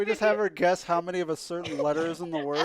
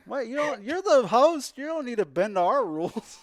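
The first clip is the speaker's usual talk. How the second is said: loud, higher, emphatic reassurance; excited; 6 semitones higher, 5 dB louder than usual. Real, not acted. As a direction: fire up the host. Rallying the host.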